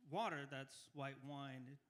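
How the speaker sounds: slow, drawn-out reveal of the wine; slow emphasis. Retold or imitated. Coworker pointing out the wine, slowly. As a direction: stretch each word out for effect. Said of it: "that gives it that little emphasis".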